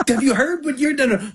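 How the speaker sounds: high-pitched mock disbelief; retold indignant retort. Husband retelling his comeback to his wife, high and indignant.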